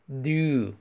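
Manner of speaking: "Do" with lips pushed far forward, rounded oo. Shown as a demonstration. Teacher showing the lip shape, pouted lips. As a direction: pout hard on "Do". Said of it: "把嘴巴伸长，撅嘴".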